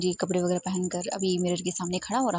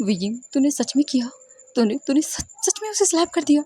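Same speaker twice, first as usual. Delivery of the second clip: shocked disbelief; 6 semitones higher than usual. Acted. Friend reacting to Wei Ying's slap, higher shocked question. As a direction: ask it as if you can't believe the news.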